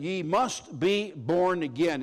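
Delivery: slow, deliberate stress through "Ye must be born again"; "Ye must be born again" said slowly and firmly; emphatic. Shown as a demonstration. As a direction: weigh out each word of "Ye must be born again". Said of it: "is an emphatic statement".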